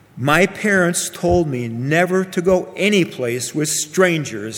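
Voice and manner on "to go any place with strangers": ordinary delivery, nothing marked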